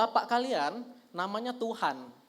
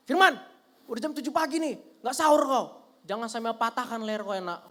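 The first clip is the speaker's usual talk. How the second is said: harsh mom. Retold or imitated. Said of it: "mama saya ini ngomongnya suka kasar, nadanya tinggi".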